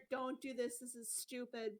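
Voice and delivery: flat, slow, quiet and matter-of-fact; no emotion. Acted. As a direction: say it like cold logic, no feeling. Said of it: "with no emotion whatsoever".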